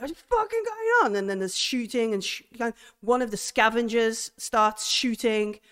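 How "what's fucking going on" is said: much higher and loud; panicked scream. Acted. Farouk losing it as the shooting starts, high panicked yell. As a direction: shriek it in terror.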